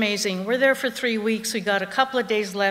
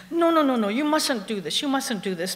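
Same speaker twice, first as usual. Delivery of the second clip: alarmed warning; 4 semitones higher than usual. Acted. Tour guide's alarmed warning acted out.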